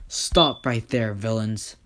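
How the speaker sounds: loud, slow order to halt; hero's command. Acted. Hero orders fleeing pair to stop.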